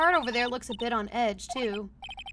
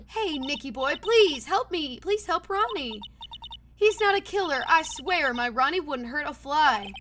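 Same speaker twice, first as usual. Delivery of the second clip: put-on Southern-American accent; 3 semitones higher, 4 dB louder, slower than usual. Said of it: "mixture between an American and, like, Southern accent".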